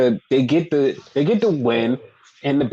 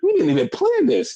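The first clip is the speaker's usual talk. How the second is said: mock Dakota; 6 semitones higher than usual. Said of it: "Dakota's like".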